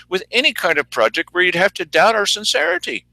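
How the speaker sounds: lightly mimicked official sincerity; mock commissioners. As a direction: gush mockingly as an official. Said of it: "say the commissioners".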